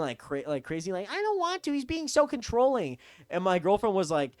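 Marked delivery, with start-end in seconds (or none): 1.1-3.0 mock crying. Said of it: "called me and my cousin crying".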